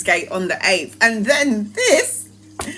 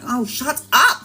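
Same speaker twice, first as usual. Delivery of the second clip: laughing dismissal; slower than usual. Retold or imitated. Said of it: "I'm like".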